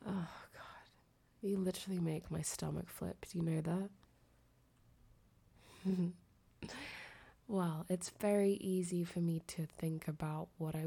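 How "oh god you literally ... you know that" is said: whispering. Real, not acted. Flustered whisper to partner.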